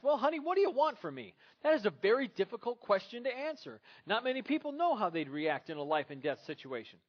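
exasperated Michael. Retold or imitated. Michael defending himself to his angry wife, whiny and loud. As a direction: whine it like a cornered husband. Michael pleads in acted quarrel.

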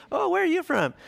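very high, sing-out mock sociable greeting; hammed-up chirpy pastor making small talk; friendly conference small talk. Pastor greeting another at a conference, hammed-up friendly. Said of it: "like, pastors' conferences".

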